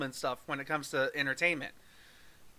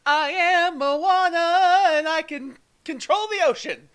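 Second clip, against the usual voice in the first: very high, slow sweet princess; sing-song cartoon princess voice; Disney princess voice; 11 semitones higher, 9 dB louder, slower than usual. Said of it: "if it's just like".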